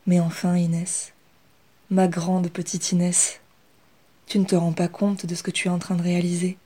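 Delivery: aunt affectionately encouraging Inès. Acted. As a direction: fondly reassure her niece. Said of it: "rétorqua affectueusement sa tante".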